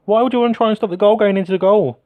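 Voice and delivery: loud, high mocking rant; exasperated sarcasm. Real, not acted. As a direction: throw the question out in disbelief. Mocking his defenders, sarcastic rant.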